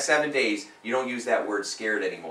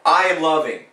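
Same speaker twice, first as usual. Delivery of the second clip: loud affirmation; 5 semitones higher, 10 dB louder than usual. Shown as a demonstration. Coach leading client in affirmation, loud and high. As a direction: punch out I am worth it, strong and high. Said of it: "Go like this".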